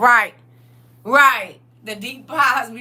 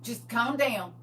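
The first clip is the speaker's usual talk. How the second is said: soothing Jesus; 8 dB quieter than usual. Acted. Jesus calms down God.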